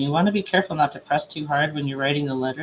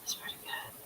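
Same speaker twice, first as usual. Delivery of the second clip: whispered while holding breath; 18 dB quieter than usual. Real, not acted. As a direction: squeeze it out on held breath. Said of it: "I gotta hold my breath one more time".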